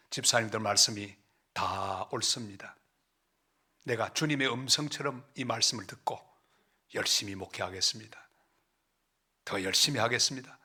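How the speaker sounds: low, soft, humble concession; humbled submission. Retold or imitated. Pastor yielding to accusing deacons, low humble submission. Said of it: "저는 그 앞에서 낮아졌습니다".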